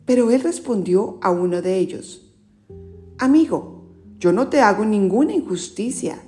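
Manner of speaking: storyteller reading scripture; Gospel reading. Acted. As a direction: clear read-aloud narration. Reads the Gospel aloud.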